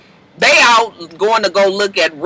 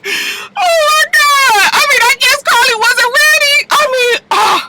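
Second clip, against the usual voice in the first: laughing; 4 dB louder than usual. Real, not acted. Laughing at her retelling.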